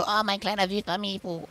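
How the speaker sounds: mock sweet talk. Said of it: "und bei Mifu so".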